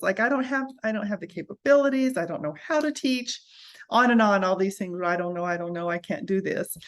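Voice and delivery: retold panic, words tumbling out; panicked protest. Mother protesting to God she cannot homeschool, anxious.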